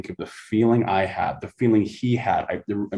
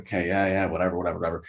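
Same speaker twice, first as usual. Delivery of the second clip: dismissive; 3 semitones lower, 4 dB quieter, much faster than usual. Retold or imitated. Retells brushing off dull questions.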